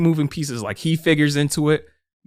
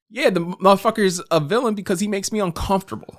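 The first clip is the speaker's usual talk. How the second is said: mocking high voice; 8 semitones higher than usual. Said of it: "I was just like".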